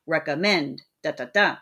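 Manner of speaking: "Recommend" beaten out, last syllable stressed; final stress demo. Shown as a demonstration. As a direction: echo "Recommend" as "Da, da, da", landing on the last beat. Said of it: "like, unstressed and a stressed".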